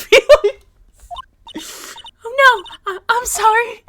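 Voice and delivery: mock apology. Acted apology, high and loud.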